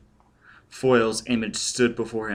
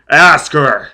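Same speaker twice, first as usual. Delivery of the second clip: very loud, raised-pitch command; shouting; 4 semitones higher, 13 dB louder than usual. A narrator's reading. Foyle in a rage at the child, shouting. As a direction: burst out with a furious order. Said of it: "Foyle was shouting".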